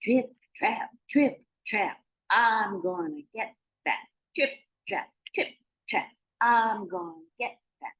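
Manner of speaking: middling goat trip-trap chant; march along in a slightly high voice; mid-sized goat on the bridge; medium-sized billy goat. Acted. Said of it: "He made a sound more like this".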